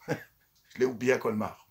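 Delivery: slowly, laughing at his own mistake. Real, not acted. Vlogger admitting he forgot his charger, laughing slowly. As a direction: chuckle through it, amused at yourself.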